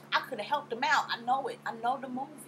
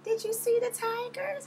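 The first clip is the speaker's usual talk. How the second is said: high, slow airy Portia voice; high mock ditzy question; imitating Portia; 4 dB louder than usual. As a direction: play her clueless question pitched up. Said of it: "She was like".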